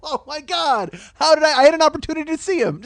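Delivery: hammed-up high wail of grief; mock anguish. Comic faking grief at a musician's death, overblown wailing. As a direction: cry out a long theatrical "no", then lament. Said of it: "I can't lie. It's not like I'm sitting at home".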